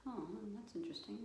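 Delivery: quick, noncommittal musing; detached left brain. Acted. Left brain putting off a decision, noncommittal. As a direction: brush it off thoughtfully, without commitment. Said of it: "your left brain saying".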